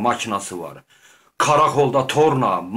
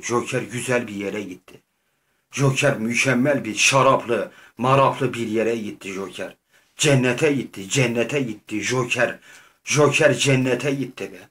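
mock consoling; 2 semitones lower than usual. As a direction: gently coax her like a grieving friend. Consoling crying Harley Quinn.

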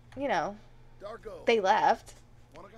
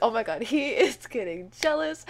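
loud, rapid running commentary of the drama; excited panic; 2 semitones higher, 6 dB louder than usual. Real, not acted. Gamer watches the husband get jealous, loud excited panic. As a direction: narrate the chaos in loud excitement.

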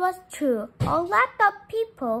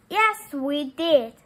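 louder and slow, making a point; 6 dB louder than usual. Acted. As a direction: say it loud so all can hear. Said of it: "said Bean in a loud voice".

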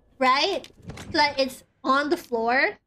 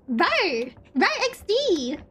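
slow, higher mock scene kid cutesy growl; 4 semitones higher, slower than usual. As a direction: tease a scene kid, drawn out. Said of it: "That's what he is".

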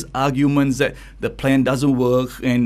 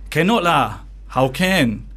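Malaysian English; 4 semitones higher, slower than usual. Retold or imitated. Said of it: "So the sentence goes like this".

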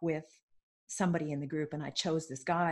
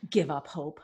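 incredulous echo; 3 semitones lower than usual. Retold or imitated. Client silently disputing coach's advice, incredulous. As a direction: echo it flabbergasted, then climb in protest. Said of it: "what I was thinking at the time".

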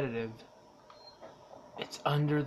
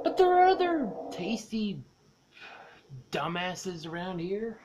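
creepy whisper; 4 semitones higher, 4 dB louder, slower than usual. Pretend. Voicing the stalking alien.

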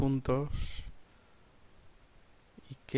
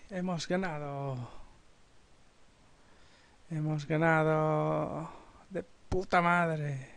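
slow relieved; slower than usual. Real, not acted. Relieved after the victory.

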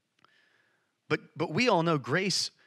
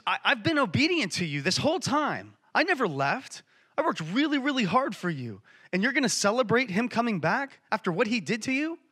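higher-pitched aggrieved complaint, acted; upset protest; 6 semitones higher than usual. Older brother complaining to his father about the celebration, upset. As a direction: plead your case, hurt and indignant. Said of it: "he gets upset 'cause he says".

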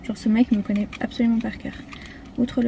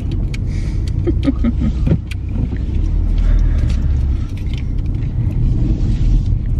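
loud breathy laughing fit; long laugh; 6 dB louder than usual. Real, not acted. Laughing at her boyfriend giving up, loud and long. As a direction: burst out laughing and keep going.

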